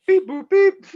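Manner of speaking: high beeping computer voice; robot voice. Pretend. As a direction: beep like a calculating robot. Robot beeps again.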